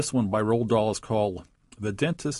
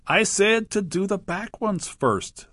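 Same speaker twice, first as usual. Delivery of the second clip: higher, louder crocodile insisting, hit said and fall at the end; impatient crocodile repeating his order, raised voice; calling out; 9 semitones higher, 4 dB louder than usual. A narrator's reading. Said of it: "the crocodile called out".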